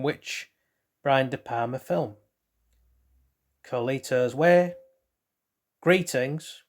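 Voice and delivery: bright quiz-host read, options spaced out; quizmaster reading. Acted. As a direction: read it like a quiz show question. Reads out quiz question and options.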